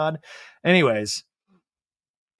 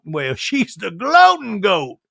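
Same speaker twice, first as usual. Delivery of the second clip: laughing; 5 semitones higher, 7 dB louder, much slower than usual. Retold or imitated. Sutton laughing quote.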